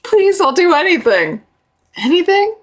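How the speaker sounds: high pleading voice, hammed up; mock pleading. Repeating the drowning woman's plea to the viewer, in mock desperation.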